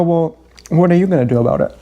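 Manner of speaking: quick shrugging comeback; a brisk, dismissive question; flippant retort. Retold or imitated. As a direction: toss it off fast and careless. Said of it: "I go".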